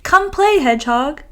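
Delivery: pleading. Acted. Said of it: "they said".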